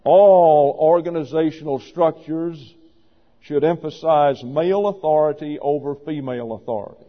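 restated for emphasis. Shown as a demonstration. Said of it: "Note the word emphasize".

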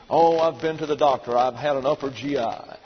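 understated imitation of a chronic whiner; mock whining. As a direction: list ailments in a mock moan. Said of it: "They're always whining and mewling".

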